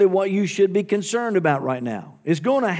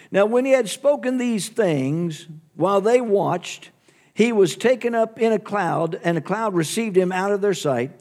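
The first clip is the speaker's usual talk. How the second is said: scripture reading. Shown as a demonstration. Pastor reads verse nine aloud.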